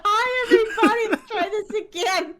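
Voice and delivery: loud, high, laughing hello; hyped-up greeting. Real, not acted. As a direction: greet them with big energy. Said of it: "You kinda hyped me up".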